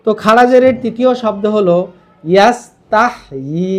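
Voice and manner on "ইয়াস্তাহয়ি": ইয়াস্তাহয়ি very slow, with a rising long final ই; slow recitation. Shown as a demonstration. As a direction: draw out ইয়াস্তাহয়ি slowly and lift the final ই. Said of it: "ইয়া খারাজের ই".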